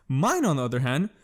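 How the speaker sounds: words broken by a burp; burping mid-phrase. Real, not acted. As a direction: say Mine, on the other hand through a burp. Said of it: "just fucking burped again".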